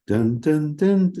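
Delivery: each dun spaced out and separate; slow, deliberate dun notes; slow practice notes. Shown as a demonstration. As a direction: sing dun, dun, dun slowly, one note at a time.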